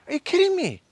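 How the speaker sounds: high, loud outburst of disbelief; shocked and outraged, pitch jumping up; incredulous. Real, not acted. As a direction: cry out in real disbelief. Outraged at the asker.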